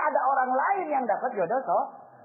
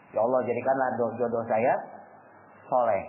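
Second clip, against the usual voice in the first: humble prayer; 11 semitones lower than usual. Retold or imitated. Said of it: "dia doa kan tuh".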